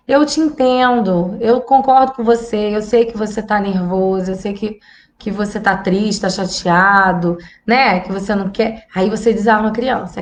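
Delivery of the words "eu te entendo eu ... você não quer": understanding. Shown as a demonstration. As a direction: soothe the upset child. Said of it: "você vai falar assim". (mãe acolhendo o filho nervoso, com calma)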